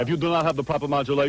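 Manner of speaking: a light stern-father voice; imitating father. Host mimicking his father for the guest, lightly voiced. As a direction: lightly do a pompous dad. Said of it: "my father talks like this".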